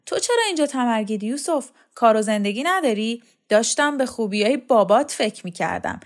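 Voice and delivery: a hint of a bitter, scolding woman; hard-done-by wife, lightly voiced, listing his faults; lightly voiced aggrieved wife. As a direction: rant about the husband with mild acted grievance. Kokab rants about absent husband.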